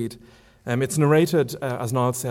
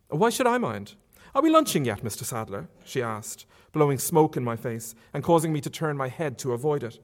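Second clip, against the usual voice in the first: Marion; 3 semitones higher than usual. Acted. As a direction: tease him lightly. Marion's teasing questions.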